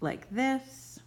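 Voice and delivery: unvoiced high whisper; whispered aside. Shown as a demonstration. Teacher whispering the demo to students. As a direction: whisper it to the class. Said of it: "it is accented like this".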